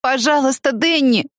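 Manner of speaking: put-on a girl's lifted, imploring plea; begging. A narrator's reading. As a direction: beg him not to leave her. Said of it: "умоляющим тоном начала она".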